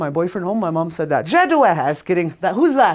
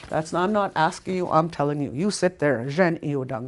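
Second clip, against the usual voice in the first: firm command. Shown as a demonstration. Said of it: "That's a command".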